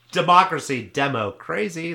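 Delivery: DEMOCRACY respoken as DEMO, CRAZY; punning mispronunciation. Acted. Co-host coins a political pun, DEMO CRAZY said as two words. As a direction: split democracy into DEMO and CRAZY, loud and high. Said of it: "That's what I say".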